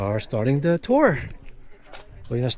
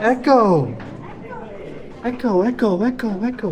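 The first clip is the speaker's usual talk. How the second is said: cave echo; 8 semitones higher than usual. Pretend. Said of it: "You hear the echo?".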